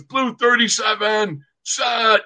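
high-pitched imitation of snap count calls; quarterback's cadence. Quarterback to his line before the snap, imitated cadence call. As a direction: call the signals like a quarterback, not at full volume. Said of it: "Stouter comes up and goes".

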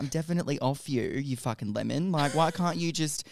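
fast, rising exasperated telling-off; retold heated retort to the boyfriend. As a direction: snap back at him, getting worked up. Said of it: "I'm getting really heated talking about this".

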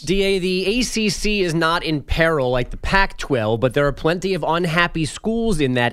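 brisk, steady radio headline delivery; sports news read. Acted. Update anchor giving listeners college conference headlines, news read.

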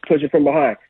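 usual speaking voice

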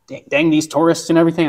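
put-on a weak, half-hearted stab at a Dutch accent; barely-there Dutch accent, mostly his own voice; attempted Dutch accent. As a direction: mimic a grumbling Dutch resident with a bad Dutch accent. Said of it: "I can't do a Dutch accent like you".

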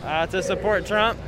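muffled behind a mask; talking through a face mask. Real, not acted. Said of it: "Can you hear me through the mask?".

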